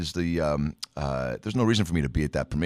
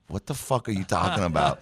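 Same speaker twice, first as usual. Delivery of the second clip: incredulous question, mildly raised; imitated bafflement; 3 semitones higher than usual. Co-star breaking character at his improv, baffled and incredulous. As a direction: drop the act and ask in mock disbelief. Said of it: "her as a person just being like".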